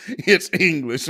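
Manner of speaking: "It's English" drawn out slowly through laughter; laughing repeat. Retold or imitated. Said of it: "what language is that?".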